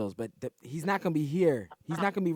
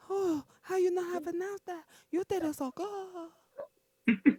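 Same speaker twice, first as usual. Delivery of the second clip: much higher, breathy-free hammed-up bad Russian accent, slowing right down; 8 dB quieter, slower than usual. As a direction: play a flirty woman with a terrible Russian accent. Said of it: "that's a bad Russian accent".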